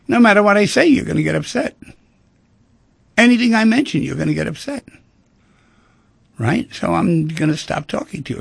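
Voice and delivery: the stonewalling partner gives up, loud and exasperated; fed-up partner. Retold or imitated. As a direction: throw up your hands and snap it out, fed up.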